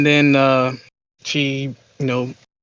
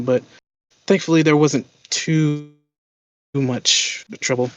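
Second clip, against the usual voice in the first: lightly voiced timid man, stammering thanks; flustered, grateful little fumbling; meek gentleman. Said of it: "the meekly gentleman's like".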